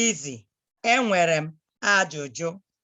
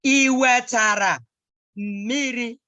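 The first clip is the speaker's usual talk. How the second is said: Iwetara slow and louder, then miri; slow model; 3 semitones higher, 4 dB louder, slower than usual. Shown as a demonstration. Teacher modelling Iwetara miri for the child. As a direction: stress Iwetara, slow and full.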